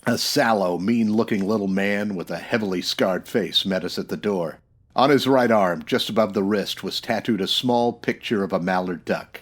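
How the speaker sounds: dry hard-boiled storyteller voice; noir narration. A narrator's reading. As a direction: tell it like a detective looking back in an old film. Narrator describes the hideout.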